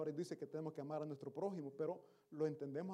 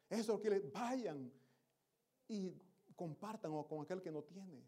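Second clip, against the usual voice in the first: raised, insistent sermon exhortation; impassioned preaching; 3 semitones higher, 4 dB louder than usual. Real, not acted. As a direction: urge the congregation on with rising force. Preacher urges congregation to share.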